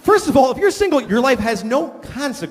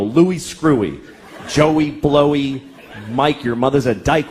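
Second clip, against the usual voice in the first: put-on taunting kids; 5 semitones lower, slower than usual. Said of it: "they go".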